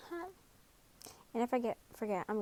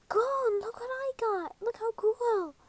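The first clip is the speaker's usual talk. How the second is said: much higher, louder thrilled call; excited calling out; 12 semitones higher, 3 dB louder, slower than usual. Acted. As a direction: shout up your prize with glee. Excited shout to Gon from cliff.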